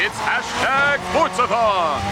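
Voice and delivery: slow booming announcer. Shown as a demonstration. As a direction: announce it like a host. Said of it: "seeing if the old announcer voice still works".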